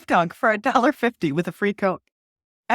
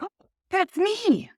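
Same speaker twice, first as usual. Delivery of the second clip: high-pitched delighted squeal of words; retold excitement; 10 semitones higher, slower than usual. Guest recalling praise from a fellow author, excited. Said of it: "Like, I was so excited".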